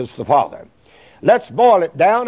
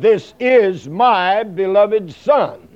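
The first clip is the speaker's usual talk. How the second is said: slow, raised, solemn pronouncement of "This is my beloved Son"; lightly voiced divine proclamation, drawn out; solemn heavenly voice; 3 semitones higher, slower than usual. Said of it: "stated and said".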